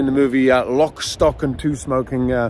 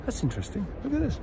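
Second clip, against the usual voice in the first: soft, high, curious murmur; intrigued; 7 semitones higher, 9 dB quieter than usual. Retold or imitated. Dad luring son to a stick, soft curious. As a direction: lure the child's eye down. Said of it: "I was like".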